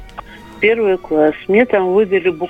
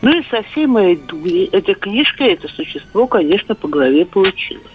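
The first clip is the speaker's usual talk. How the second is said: over a landline phone. Real, not acted. Caller on radio phone line.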